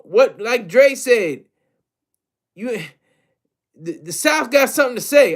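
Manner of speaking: badly faked Southern accent, pitched a bit up; T.I., terrible Southern accent. Rapper sounding off about New York visitors, in a hammed-up Southern accent. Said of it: "this is my terrible, you know, Southern accent".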